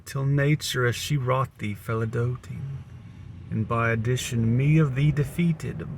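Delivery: slow, measured sonnet reading; poem recitation. Acted.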